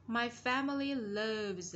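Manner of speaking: slow "loves" closed on a Z; final Z sounded. Shown as a demonstration. Teacher shows pupils the ending, slow voiced Z on "loves". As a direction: stretch the phrase and end "loves" with a Z sound. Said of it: "Z ending sound".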